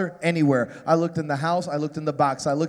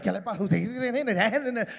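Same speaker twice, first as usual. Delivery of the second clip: put-on slow, drawn-out Cuban-accented Spanish reproach; Ricky Ricardo Spanish; 2 semitones higher, much slower than usual. The dad dragging out a Cuban-accented Spanish reproach at his son. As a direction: stretch each word like an exasperated Cuban dad. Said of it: "full blown Ricky Ricardo".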